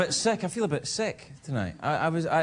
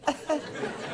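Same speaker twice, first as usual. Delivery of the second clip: put-on feeble cough; exaggerated little phone-in cough; fake sick cough; 11 semitones higher, 5 dB quieter than usual. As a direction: cough weakly to fake illness. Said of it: "sound a little bit more sick".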